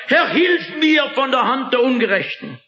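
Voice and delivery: the psalmist shouting to God in despair; desperate cry. Acted. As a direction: cry out like a man going under. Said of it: "schreit der Mann ... verzweifelt, wie ein Untergehender".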